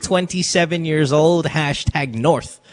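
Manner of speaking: slow, drawn-out announcer read; radio host intro. Acted. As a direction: announce the caller slowly. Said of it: "introducing caller radio style".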